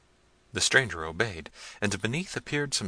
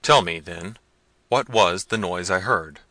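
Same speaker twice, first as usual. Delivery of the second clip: louder, commanding question; stern demand; 7 dB louder than usual. Acted. Prince pressing the youth, stern and loud. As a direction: insist on an answer.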